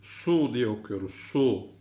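"Su" with a heavy s, lips forward; thick "su". Shown as a demonstration. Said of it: "Kalın su. Dudağımız ileride".

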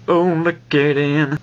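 high-pitched voice. Pretend. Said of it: "now I sound like a high-pitched coo".

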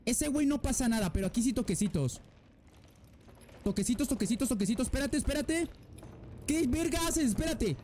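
soft, tense whispering along; creeping past, barely breathing; tense hushed voice. Real, not acted. Sneaking past mannequins.

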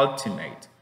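"ultimate" starting on a relaxed uh; careful model of "ultimate"; strong schwa demo. Shown as a demonstration. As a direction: say "ultimate" with loose mouth on the first vowel. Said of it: "la pronunciación es igual".

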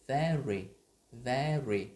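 very with a flat tapped r; the way learners say very; wrong very. Shown as a demonstration. Teacher showing the wrong very. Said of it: "không phải very hay là very".

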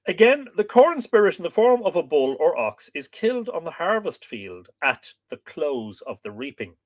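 measured, projected reading voice; book reading aloud. Acted. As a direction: read the old text out to listeners with clear phrasing. Reads the book aloud to viewers.

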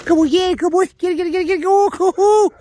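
high, loud go go chant; excited cheering. Real, not acted. Trainer cheering the dog after the tennis ball, loud and high. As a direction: push the dog to run, rising.

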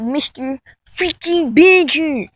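lightly mocking drawn-out name call; a touch of mock announcer emphasis; Mister Badger. Vlogger ranting about how a rival says his name, mocking. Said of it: "that's how he says his name".

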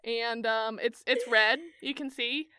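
a hesitant, halting guide voice, lightly put on; mock clueless wine guide, trailing up into a question; clueless tour guide. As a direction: fumble for words like a guide who knows nothing. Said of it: "pick up the bottle and go".

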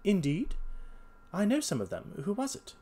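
light voicing of a clever detective; Holmes voice. A narrator's reading.

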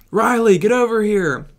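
high, loud call across the hold; urgent shout. Acted. Calling Riley over as the gunpowder is about to blow, shouting. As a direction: yell for him to come now. Fleeing the exploding ship.

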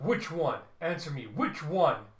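loud villain interrogation; forceful, threatening questioning; angry demand. Acted. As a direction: demand an answer from failed minions. Villain interrogates her failed minions.

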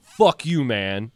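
retold heckler yelling at the comic; angry heckler. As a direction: imitate the hostile guy. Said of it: "the dude was just like".

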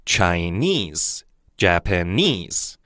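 Chinese and Japanese with the stress on the final ese syllable; stress on the ending. Shown as a demonstration. Teacher asks students to listen, stressing the final syllable. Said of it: "大家听一下".

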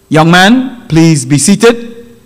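measured judge, slowing on the order; lightly voiced stern judge repeating himself; formal judge.

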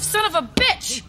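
angry cursing. Acted. Driver cursing at another car, angrily. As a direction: curse at the driver who cut in. Cut off in traffic.

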